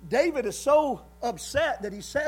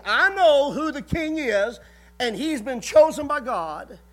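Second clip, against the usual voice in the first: firm declaration; 2 semitones higher, 6 dB louder than usual. Acted. Jonathan declares his loyalty.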